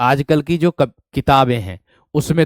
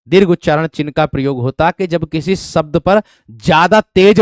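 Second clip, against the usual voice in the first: loud teaching; 6 dB louder than usual. Real, not acted. Teacher raises voice to class.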